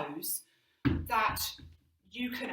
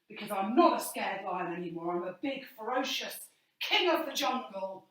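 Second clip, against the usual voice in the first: confident lion; 3 dB louder than usual. Shown as a demonstration. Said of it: "feeling much more confident".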